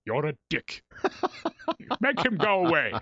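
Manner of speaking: lightly imitated British thespian; Patrick Stewart. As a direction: dismiss him in a mock actorly voice. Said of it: "He turns to me".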